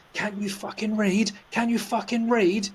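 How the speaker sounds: rising, slowed mock rant; mock angry yell. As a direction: ape the rude man's outburst. Retold angry man at steward.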